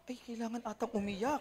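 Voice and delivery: very soft, sheepish aside; nahihiya. Acted. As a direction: mutter it to yourself, embarrassed into joining. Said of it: "Ikaw tuloy, nahiya ka". (mahinang bulong na nahihiya)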